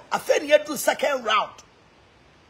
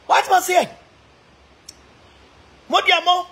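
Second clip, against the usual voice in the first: incredulous outcry; 6 semitones higher, 4 dB louder than usual. Real, not acted. Incredulous outburst.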